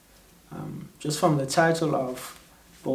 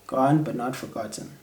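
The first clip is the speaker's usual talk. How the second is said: measured spoken-word delivery, phrase by phrase; deliberate poetry reading with weighted pauses; poem recitation; 3 dB louder than usual. Acted. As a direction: recite it as a solemn elegy, leaning on opening words.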